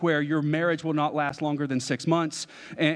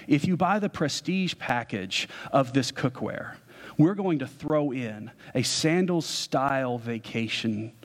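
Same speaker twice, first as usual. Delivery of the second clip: slick salesman pitch; 3 semitones lower than usual. Retold or imitated. Imitating the cookware salesman for the audience, mild smooth sell. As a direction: lean into the hard sell, unhurried and lower. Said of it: "as he goes through this beautiful PowerPoint presentation saying".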